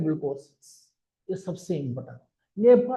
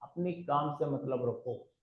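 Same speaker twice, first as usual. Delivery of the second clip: repeated much softer and slower; softer and slower, letting the advice sink in; soft, slow version; 4 semitones lower, 12 dB quieter, slower than usual. Shown as a demonstration. Speaker calmly tells the audience to mind their own business, said softly and slowly. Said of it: "Mind your own business".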